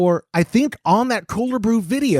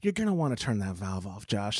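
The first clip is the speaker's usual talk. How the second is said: low, soft, imitated calm voice; 13 semitones lower, 11 dB quieter than usual. Imitating a friend warning him about the valve, very calm. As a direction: imitate someone keeping eerily calm, low and quiet. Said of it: "in a very calm voice goes".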